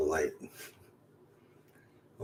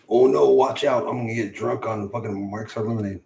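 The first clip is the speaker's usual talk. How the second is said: loud, raised mock warning easing off; mock alarm; 3 semitones higher, 5 dB louder than usual. Streamer jokes to viewers about drinking, mock alarm. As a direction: play up fake panic, then settle.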